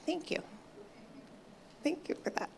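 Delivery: soft whispered aside to someone nearby; whispered thanks. Real, not acted. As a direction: breathe a quick thank-you off to the side.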